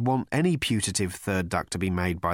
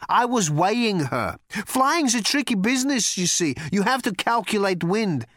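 raised, projected boast; big voice pitched up; booming thunder god; 10 semitones higher, 4 dB louder than usual. A narrator's reading. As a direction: explain grandly, like a god. Thunder god explains himself.

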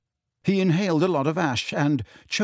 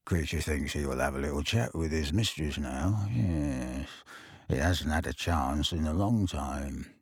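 gleeful elf; 10 semitones lower, 8 dB quieter than usual. Acted. Elf gloating to Harry, low gleeful croak. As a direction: savour every word. Kreacher muttering.

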